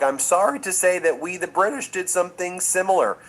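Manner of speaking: a hint of a prim British king apologising; playful impression of the monarch's dry joke; imitating King Charles. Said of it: "And he was like".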